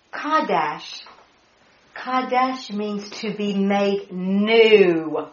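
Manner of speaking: Kadesh, slow, KAH-desh, stress on KAH; careful Hebrew word. Shown as a demonstration. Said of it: "K H A W dash hyphen".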